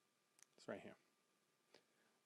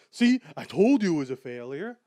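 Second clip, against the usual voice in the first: frustrated outburst; 9 dB louder than usual. Retold or imitated.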